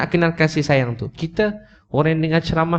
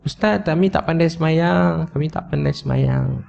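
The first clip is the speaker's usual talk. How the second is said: retold plea; 3 semitones higher than usual. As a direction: imitate helpless worshippers, stretching the last words. Retold plea of weeping worshippers. (rayuan perlahan meniru jemaah)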